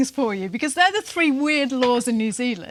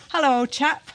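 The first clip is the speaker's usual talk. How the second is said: posh English. Retold or imitated. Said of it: "just stick to your".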